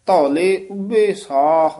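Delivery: ਧੌਲੇ said soft and slow; soft dhaule. Shown as a demonstration. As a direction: soften the ਧ in ਧੌਲੇ. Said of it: "ਇਹ ਪੋਲਾ ਹੀ ਬੋਲਣਾ".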